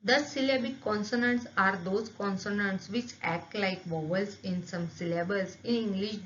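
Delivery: "there are certain words" read slowly, word by word, like dictation; slow textbook reading. Acted. Teacher to students, reading the book aloud slowly. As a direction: read each English phrase slowly and clearly for the class.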